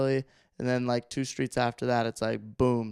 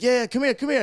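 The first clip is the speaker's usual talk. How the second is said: high, louder mocking call; retold jeering; 11 semitones higher, 5 dB louder, faster than usual. Man on Skid Row jeers at passing driver, retold jeering. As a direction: imitate a street heckler calling someone over. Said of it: "jeering at me".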